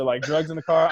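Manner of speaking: normal talking voice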